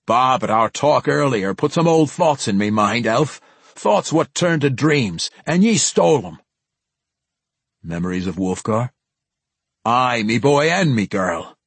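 put-on lightly gruff old dwarf, wistful; grumbling dwarf turning nostalgic. Narrator voices Bruner the dwarf.

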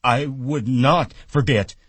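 loud Lennie. A narrator's reading. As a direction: insist hard. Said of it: "Lenny said loudly".

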